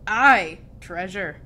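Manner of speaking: hearty pirate cheer, loud first word; storybook crew chorus; crew shout. A narrator's reading. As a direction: shout AYE, then ease off. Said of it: "the others shouted".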